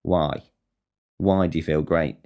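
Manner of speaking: low-key, falling, suspicious question; deadpan challenge. Acted. Challenging someone who admits feeling great, deadpan suspicion. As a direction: challenge it drily without raising your pitch. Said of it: "that gets challenged".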